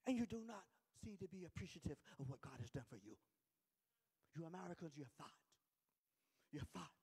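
weighty reproach in a put-on Nigerian accent; Mbumi, Nigerian accent. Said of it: "And in his accent of Nigerian".

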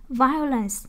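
"Violence" with VI hit, then falling; stress on first syllable. Shown as a demonstration. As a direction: lead firmly with VI in "Violence". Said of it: "nhấn âm một".

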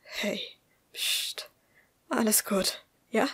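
hushed, gentle reassurance; soothing. Acted. Man comforting a sobbing woman, soothingly.

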